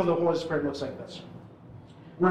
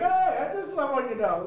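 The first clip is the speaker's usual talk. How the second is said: raised voice; 8 semitones higher than usual. Retold or imitated. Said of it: "I'm like".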